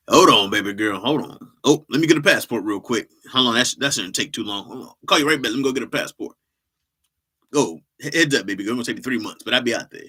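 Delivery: a hint of an eager old father; fussy dad promising to come; lightly voiced old dad on the phone; old man voice. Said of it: "Old black man voice".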